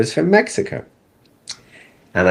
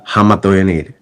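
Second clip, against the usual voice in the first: put-on Mexican accent; 3 dB louder than usual. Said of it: "but I can do the accent for you".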